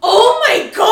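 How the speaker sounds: loud, high screamed exclamation; frightened scream in the theater, loud and high; retold scream. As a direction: shriek it like a jump scare hit. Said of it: "So I screamed".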